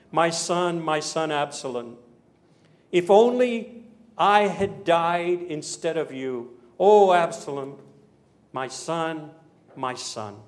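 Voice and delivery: slow lament swelling, then sinking away; restrained acted grief, drawn-out vowels; acted grieving cry. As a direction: mourn as a father, fading on the last words. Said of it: "Imagine a father's crying at the top of his lungs".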